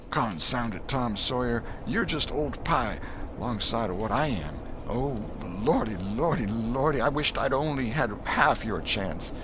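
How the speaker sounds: put-on frightened boy voice, lordy lordy; despairing boy. Huck laments to Tom.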